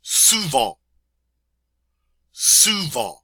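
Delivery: Souvent with nasal end; French model word. Shown as a demonstration. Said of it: "And that means often".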